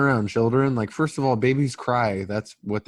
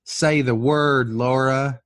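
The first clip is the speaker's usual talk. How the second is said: slow, pressing demand, a bit louder; pushy husband; 3 dB louder than usual. Retold or imitated. Husband pressing his wife over the baby, slow and insistent. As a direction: lean on each word, slow and insistent. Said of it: "And Matthew McConaughey is like".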